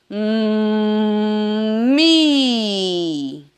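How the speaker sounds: a long held hum gliding into "mi"; bull sound into I. Shown as a demonstration. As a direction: hum like the bull, then open into "mi". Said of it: "som do touro e o som do I". ("Hum, mi" com o som do touro)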